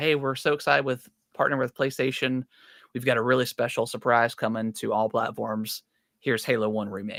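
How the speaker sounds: usual speaking voice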